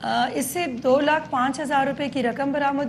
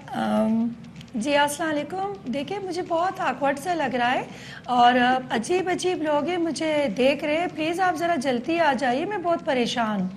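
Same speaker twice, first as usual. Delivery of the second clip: lightly voiced uneasy girl of sixteen asking for help; nervous teenage girl. Shown as a demonstration. Officer demos her decoy call luring the thief, lightly voiced anxious girl. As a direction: play a shy, worried young girl, only a touch. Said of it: "share کر دیں کہ کس آواز میں آپ نے بات کی تھی".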